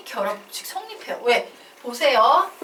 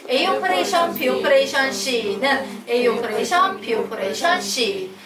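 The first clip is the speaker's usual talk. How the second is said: recitation drill. Shown as a demonstration. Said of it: "요거 세 번만 읽고 넘어가자". (크게 늘여 읽는 암송)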